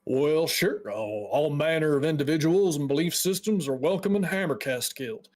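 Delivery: a hint of a folksy mage host; lightly voiced guild dwarf, welcoming.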